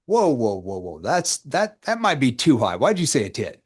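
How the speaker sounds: whoa said with playful mock alarm, pitch rising. Shown as a demonstration. Coach to prospect rating ten, playful mock alarm. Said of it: "See how I shift the tone?".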